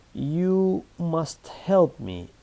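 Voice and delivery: slow, firm commanding demand; slow bossy command; bossy order. Shown as a demonstration. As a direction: order them to help, bossy. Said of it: "It sounds very bossy".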